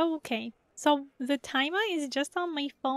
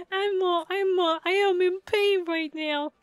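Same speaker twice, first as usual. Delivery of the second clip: ordinary delivery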